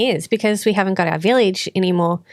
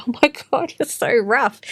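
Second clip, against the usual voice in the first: shocked; 4 semitones higher than usual. Retold or imitated. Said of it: "and I'm like".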